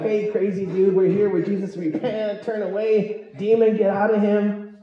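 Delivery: hammed-up brave preacher casting out; mock bold exorcist. Bold disciple confronting the possessed man, mock commanding.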